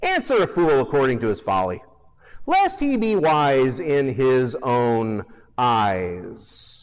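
slow, dry ironic scripture read; wry, knowing tone; sarcastic reading. Shown as a demonstration. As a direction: let the sarcasm in the verse show. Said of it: "I want you to hear the sarcasm".

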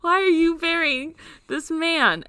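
high, loud attempt at Irish; poorly faked Irish monk accent; bad Irish accent. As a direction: botch an Irish accent, almost British. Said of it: "I can't do an Irish accent".

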